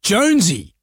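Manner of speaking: mild mock yell; repeated name as a light call; imitated yelling out. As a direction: retell a woman calling her cat, without raising volume. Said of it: "a lady was yelling out".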